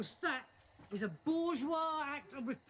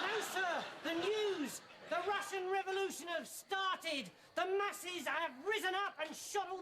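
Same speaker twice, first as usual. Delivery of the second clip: excited; 4 semitones higher than usual. Acted. Baldrick bursting in with news.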